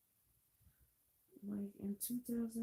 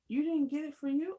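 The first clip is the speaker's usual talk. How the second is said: disbelieving aunt; 8 semitones higher, 7 dB louder than usual. Retold or imitated.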